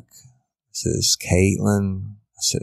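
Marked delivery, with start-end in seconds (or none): 1.0-2.1 put-on slow, higher, pleading girl's voice; imitating Caitlin. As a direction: say her name slowly as the lost girl. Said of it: "a representation of Caitlin's voice begging".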